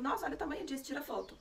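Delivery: a doctor marvelling at a huge find; surprised doctor showing off the find; amazed doctor. Retold or imitated.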